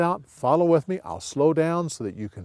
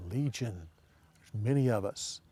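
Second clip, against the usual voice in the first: low and soft, ominous; low, dark answer; 3 semitones lower, 10 dB quieter than usual. Shown as a demonstration. Demons naming themselves to Jesus, low and soft. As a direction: growl out the name quietly.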